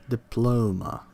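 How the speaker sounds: "Diploma" stressed on the middle syllable, di-PLO-ma; stress on second syllable. Shown as a demonstration. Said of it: "the stress syllable is bolded".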